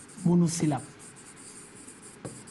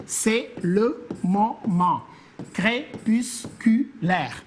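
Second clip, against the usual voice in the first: C'est le moment crépusculaire said very slowly, each syllable separated; slow syllable scansion; much slower than usual. Shown as a demonstration. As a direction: scan the line slowly so each syllable counts. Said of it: "Une syllabe, deux, trois".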